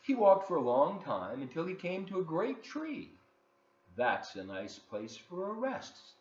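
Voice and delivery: put-on lively read-aloud for children; story narration. A narrator's reading. Host reading a picture book to kids, lively storytelling.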